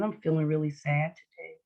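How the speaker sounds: low, subdued mock sadness; lightly acted little-child sadness; innocent sad. Shown as a demonstration. Teacher demonstrating sad with head held down, innocent sad. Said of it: "If you wanna look innocent sad".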